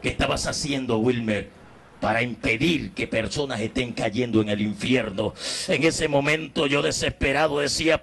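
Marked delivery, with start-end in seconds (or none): none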